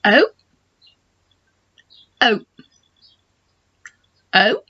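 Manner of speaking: O with a round open mouth; teacher modelling the O sound. Shown as a demonstration. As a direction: shape the O round. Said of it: "make the sound O".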